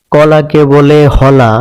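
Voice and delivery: কলা said as হলা, k turned to h; Chittagong dialect pronunciation. Shown as a demonstration. Teacher showing the Chittagong k-to-h shift in হলা. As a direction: say হলা starting on h. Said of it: "হয়ের মতো উচ্চারণ করে".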